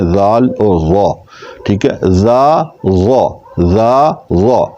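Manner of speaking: زا light, ضا thick and heavy; contrasting z sounds. Shown as a demonstration. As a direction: alternate thin زا and full ضا. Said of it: "sound کے ذریعے ہم اس کی sound ظاہر کر رہے ہیں".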